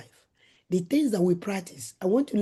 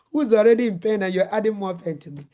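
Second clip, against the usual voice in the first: laughing retelling. Retold or imitated. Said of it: "I screamed like a mad woman".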